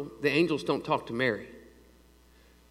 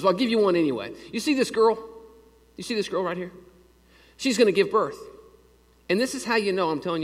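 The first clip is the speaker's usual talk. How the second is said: God speaking to Ahaz; 5 semitones higher, faster than usual. Acted. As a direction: point at the girl and proclaim it. God's promise acted out to Ahaz.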